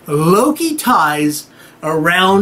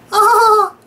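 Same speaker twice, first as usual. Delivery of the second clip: high sudden laughing yelp; a burst of laughter breaking out; little laugh; 4 dB louder than usual. Retold or imitated. Skadi finally cracking, a high laughing yelp. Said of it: "And a little".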